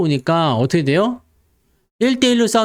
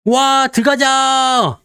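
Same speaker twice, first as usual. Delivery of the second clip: higher, slow, drawn-out cheer; mock rallying cheer; cheering crowd; 6 semitones higher, much slower than usual. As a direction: rouse the crowd to charge in. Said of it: "이런 식으로".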